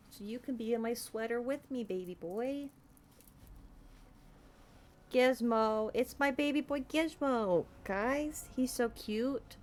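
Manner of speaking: cooing pet names. Real, not acted. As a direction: coo softly to the kitten. Cuddling cat in sweater.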